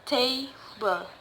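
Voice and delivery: table with TA held and BLE dropped; stress on first syllable. Shown as a demonstration. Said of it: "put in the first syllable".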